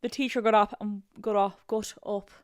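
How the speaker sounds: put-on struggling through an Irish accent, close to laughing; halting amateur Irish accent; attempted Irish accent. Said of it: "Let me try an Irish accent".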